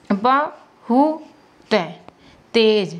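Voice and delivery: बहुत drawn out slowly, syllable by syllable; slow spelling-out. Shown as a demonstration. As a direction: stretch बहुत for the pupil. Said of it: "तो कैसे".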